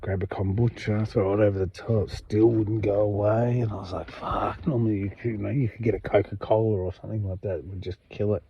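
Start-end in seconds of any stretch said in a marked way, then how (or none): 4.1-4.7 breathy unvoiced whispered curse. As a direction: whisper it, no voice at all. Retold reaction, said again.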